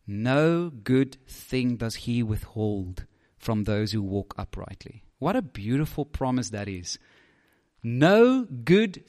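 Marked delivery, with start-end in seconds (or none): 0.1-5.0 slow, soft, reverent reading of the verse; scripture reading. Shown as a demonstration. Preacher reading the psalm aloud to the congregation, slow and soft. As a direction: let each word of the promise land slowly. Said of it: "Listen to this".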